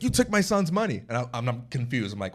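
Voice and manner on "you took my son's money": imitating an accusing father, pitched well up; mock indignant accusation; retold accusation. Father accuses cashier of taking money, mock indignant.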